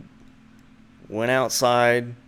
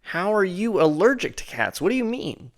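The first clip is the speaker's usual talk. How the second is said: higher, mock-baffled retort; incredulous; 5 semitones higher than usual. To her friend, asking back in mock disbelief. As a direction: throw her question back, amazed. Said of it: "And I was like".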